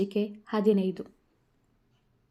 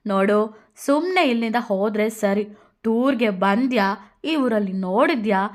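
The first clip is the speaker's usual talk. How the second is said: put-on louder threatening drunk woman; 4 dB louder than usual. Drunk woman threatens Radha, loud. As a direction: warn her off.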